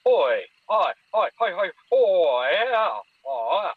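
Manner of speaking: loud rhythmic hoy calls, a mock imitation of a creature; imitating creature calls. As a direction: call out the hoy hoys like something in the woods. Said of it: "it went a lot like this".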